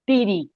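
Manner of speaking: TIRI with t instead of th; mispronounced THEORY. Retold or imitated. Recalling the word that baffled husband's classmates, mispronounced "tiri". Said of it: "he didn't have that sound in his language".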